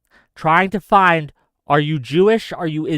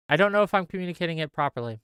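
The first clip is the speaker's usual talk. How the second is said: softer and fast, half to himself; muttered repeat; 6 dB quieter, much faster than usual. Real, not acted. Vlogger doubting himself to viewers, fast soft mutter. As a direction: mutter it again under your breath.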